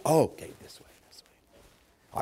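whispered giving-in; meek compliance. Acted. Preacher yielding to the Holy Spirit, meek whisper.

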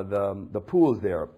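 normal talking voice

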